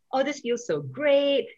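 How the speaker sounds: high, slow and delighted; a gushing, happy exclamation; thrilled quote. Retold or imitated. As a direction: savour every word of being back. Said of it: "I was like".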